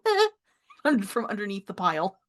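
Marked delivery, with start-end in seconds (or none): 0.0-0.3 short high startled "eh"; a little frightened squeak from hiding; fearful yelp. Acted. Someone fearful under the pile, startled yelp. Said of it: "someone fearfully go".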